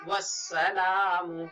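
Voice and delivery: वस्सलामु with the alif-lam silent, drawn out; recited slowly. Shown as a demonstration. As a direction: recite वस्सलामु slowly, sliding from वस् into सलामु. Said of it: "ऐसे ही अलिफ लाम को नहीं पढ़ेंगे".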